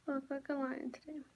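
quiet, fast self-conscious aside; quick soft aside. Real, not acted. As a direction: mutter it quickly to the camera.

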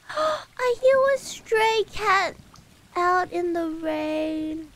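slow, drawn-out gasp of discovery; hushed-awe storybook reaction; dramatic wonder. Pretend. Gasping at cat in rain.

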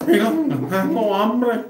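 nasal speech-impediment voice. Retold or imitated. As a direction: talk through the nose like a gangoso. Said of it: "estaban los dos gangosos".

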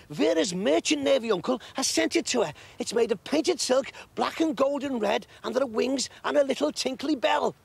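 high, stammering rush of news; breathless excitement. A narrator's reading. Kitty rushing up to the others, breathless and excited. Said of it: "rushed up to the others".

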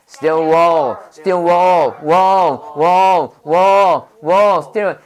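wall said as if two candies in the mouth; thick tongue. Shown as a demonstration. Teacher demonstrates a full-mouth English sound. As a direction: mouth full, round and heavy. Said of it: "혀 두 개 넣고, 사탕 두 개 넣고".

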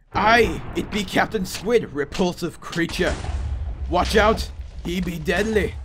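put-on playful old sea-dog; pirate voice. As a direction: warn the crew as a makeshift pirate. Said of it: "trying to talk in a pirate voice".

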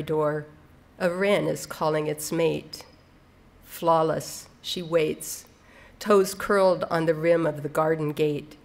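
measured recital with pauses between phrases; understated, deliberate poem delivery; poetry reading. Acted. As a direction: read the poem line by line, letting each image land. Reads poem aloud.

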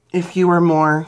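words cut by a burp. Real, not acted. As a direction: speak through a rising burp. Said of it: "I'm burping".

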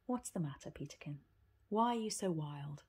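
put-on calm the boy down gently; patient. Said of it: "said in her usual patient voice".

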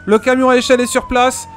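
hammed-up firefighter on the radio; police radio. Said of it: "je vous mets dans l'ambiance".

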